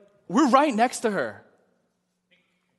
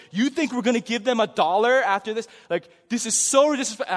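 louder indignant ranting; ranting at friend about the rude waitress, louder; angry rant; 2 semitones higher, 4 dB louder than usual. Retold or imitated. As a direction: vent at your friend, fed up. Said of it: "I'm, like, ranting and going off".

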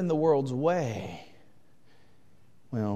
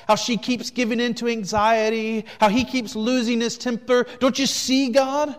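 loud, much higher, prosecuting; accusing devil; 8 semitones higher, 8 dB louder than usual. Acted. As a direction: hammer each charge like an accuser before a judge. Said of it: "the devil ... says to God".

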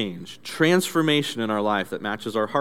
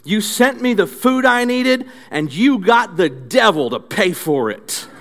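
high, slow, louder grateful praise to heaven; old lady praising; 7 semitones higher, 5 dB louder, slower than usual. Acted. Old lady thanks God for the groceries, high joyful praise. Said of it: "she says".

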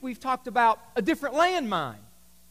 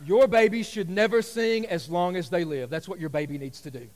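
blunt verdict; 7 semitones lower than usual. Retold or imitated. Pastor voicing viewers judging the baby. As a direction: flatly tell the truth.

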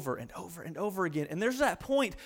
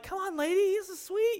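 pleading at wife; 10 semitones higher than usual. Retold or imitated. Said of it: "And I'm like".

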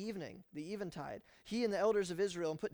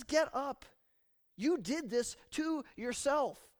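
higher, loud, slow command; unsympathetic rebuke; 7 semitones higher, 5 dB louder, slower than usual. Acted. God telling Joshua off, unsympathetic. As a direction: scold him with no sympathy. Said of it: "doesn't give him any sympathy".

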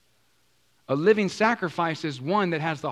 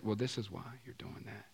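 quiet Holy Spirit; 3 semitones lower, 5 dB quieter than usual. Pretend. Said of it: "Holy Spirit said".

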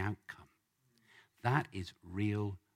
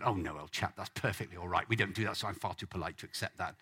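posh British; 2 semitones lower, faster than usual. Retold or imitated. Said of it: "if British, he'd have said".

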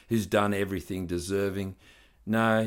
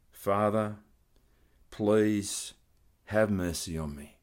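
humble prayer. Shown as a demonstration. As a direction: pray it gently, as a model prayer. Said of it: "That's the model of a disciple".

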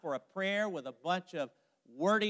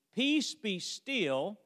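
slow calm command; 3 semitones higher, much slower than usual. Retold or imitated. Jesus quoted calming the sea.

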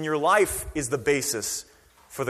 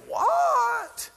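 squeaky disbelieving what, way up high; a startled cartoonish what; mock shock. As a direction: play the baffled listener. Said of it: "you're like".

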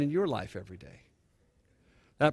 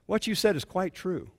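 amused; 4 semitones higher, 4 dB quieter than usual. Real, not acted. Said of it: "This is what's funny".

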